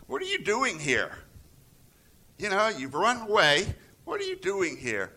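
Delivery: God calls Elijah out directly; God asking Elijah. Retold or imitated. Preacher voicing God's pointed question to Elijah. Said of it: "And then God asked Elijah".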